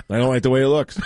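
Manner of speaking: half robot voice. Retold or imitated. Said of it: "the robotic way he said it".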